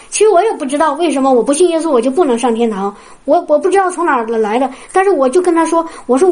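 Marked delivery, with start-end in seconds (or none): none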